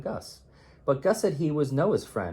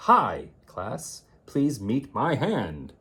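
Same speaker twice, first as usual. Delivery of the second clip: puppet intro; 4 dB louder, much slower than usual. Acted. Child presents hand puppet.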